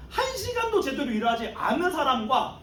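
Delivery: outraged, mocking the slacker; indignant complaint. All-day workers complaining about the latecomer, indignant. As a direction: spit out the unfairness. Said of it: "불평불만하고 막 그 삿대질을 하면서".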